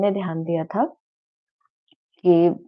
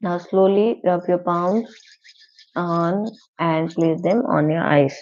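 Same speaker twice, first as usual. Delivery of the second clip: slow, spaced-out instructions; guided meditation; much slower than usual. Shown as a demonstration. Teacher easing students out of meditation, slow guidance. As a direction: guide them slowly out of the practice.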